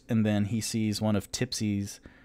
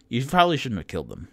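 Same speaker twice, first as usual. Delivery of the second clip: fast, louder sing-song mimicry; mocking repeat; 4 semitones higher, 6 dB louder, faster than usual. Player mocks the half-orc's warning, fast and teasing. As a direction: parrot her line back teasingly.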